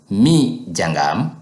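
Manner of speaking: slow, stressed "Mi jangam"; emphatic Mi jangam. Shown as a demonstration. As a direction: hit "Mi" hard and slow. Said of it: "if I want to emphasize".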